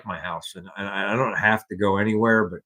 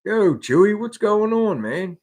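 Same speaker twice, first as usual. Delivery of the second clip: calling the dog; 11 semitones higher, 4 dB louder than usual. Real, not acted. Greeting the dog Chewy.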